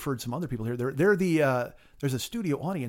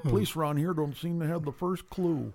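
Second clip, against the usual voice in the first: movie quote voice; 3 dB quieter than usual. Acted.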